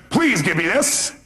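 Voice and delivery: lightly acted doctor, drawn out with a rising end; slow, mildly put-on demand; doctor's request with please. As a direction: stretch out the polite request slightly. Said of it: "the doctor raises his voice, says".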